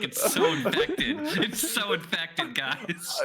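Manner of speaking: mock sickly whine. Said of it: "She's like".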